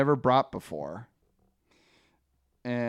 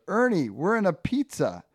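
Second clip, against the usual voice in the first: higher comic-strip read; a touch of talking-pepperoni excitement; lightly voiced pepperoni; 6 semitones higher than usual. One pepperoni tells the other, lightly acted. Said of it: "pepperoni says to the other".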